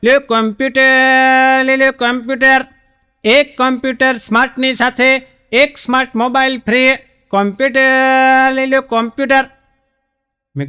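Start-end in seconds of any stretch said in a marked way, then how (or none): 0.0-9.4 sing-song hawker yelling computers for sale; street hawker's call. Retold or imitated. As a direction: call out your wares like a cart seller. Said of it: "અને પેલો રાડ પાડે".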